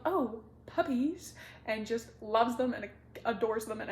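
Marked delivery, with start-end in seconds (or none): 0.0-1.3 cooing at puppies. Retold or imitated. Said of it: "the vampire sees them and goes".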